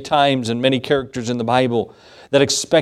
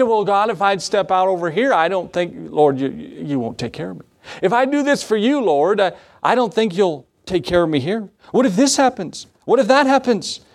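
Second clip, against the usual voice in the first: climbing higher into anxious pleading; mock fearful prayer; 4 semitones higher than usual. Preacher imitating fearful believers praying, mock anxious pleading. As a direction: fret at God as a worrier would. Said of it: "because they're fearful".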